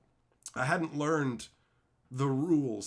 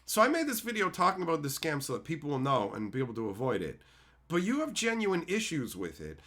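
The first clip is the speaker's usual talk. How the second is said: even, slightly lowered, reasoning voice; calm asking. Retold or imitated. Asking a commenter to explain his position, calm. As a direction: explain and ask without any insult. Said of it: "Just calmly asking this guy".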